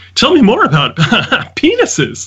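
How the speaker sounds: very high, bubbly, swooping perky voice. Retelling how she asked him questions, imitating her perky voice. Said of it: "with this like perky voice".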